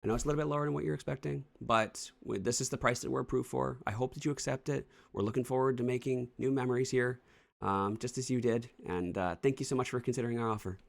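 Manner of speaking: a hint of a cheerful homebuyer pitch; sweet buyer letter. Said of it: "Sorry, I'll keep going".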